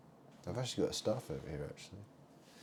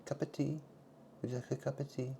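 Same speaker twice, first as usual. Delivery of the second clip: mock English host; 8 semitones higher than usual. Posh English tea voice.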